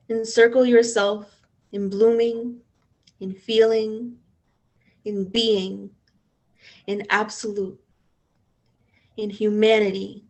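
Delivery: measured spoken-word poem read with pauses; poetry reading. Acted. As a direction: let each image land, unhurried. Reads her own poem.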